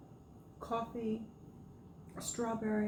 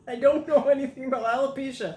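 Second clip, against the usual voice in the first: laughing; 9 semitones higher, 10 dB louder than usual. Real, not acted. Laughing while answering.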